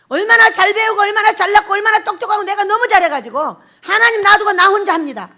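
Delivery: loud, driving sermon delivery; a pastor thundering from the pulpit; fiery preaching. Acted. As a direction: preach it hard to the congregation. Preaching at full force.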